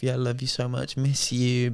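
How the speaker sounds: soft, soppy sweet talk; lovey-dovey simp. Retold or imitated. Retelling a phone call to his girlfriend, soft simp voice. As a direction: coo it softly like a besotted boyfriend. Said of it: "Being a proper little simp".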